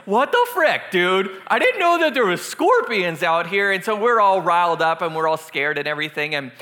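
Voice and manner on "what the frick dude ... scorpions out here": mock freak-out, raised pitch and level; hammed-up alarmed outburst; losing it. Retelling the guys' reaction to the scorpion, losing it. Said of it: "we're just losing it".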